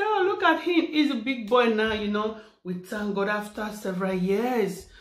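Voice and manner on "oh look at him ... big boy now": high, bright admiring oh; fond delighted exclaim. Retold or imitated. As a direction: coo over the big boy. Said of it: "we'll be talking, say".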